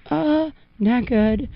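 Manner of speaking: nervous aside. Retold or imitated. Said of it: "I was like".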